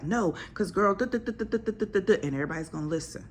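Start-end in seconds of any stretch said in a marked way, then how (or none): 0.0-2.2 know-it-all friend. Retold or imitated. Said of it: "you're gonna be like".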